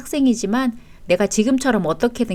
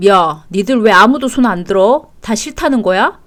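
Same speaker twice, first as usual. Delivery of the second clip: louder, scolding challenge; raised voice; 4 dB louder than usual. Acted. Father confronting children who won't raise hands, raised voice. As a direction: demand an answer from the kids. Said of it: "왜 소리를 질러".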